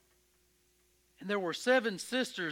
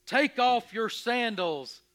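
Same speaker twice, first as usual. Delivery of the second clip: God calling from the bush, rising then dropping away; a hint of a divine boom; 2 semitones lower, slower than usual. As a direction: call his name as a great unseen voice. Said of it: "a booming voice".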